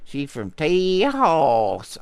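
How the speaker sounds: Tejas said tay-HAS, slow; Spanish-style Tejas. Acted. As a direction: Tejas with a Spanish h sound, drawn out. Spanish pronunciation of Texas.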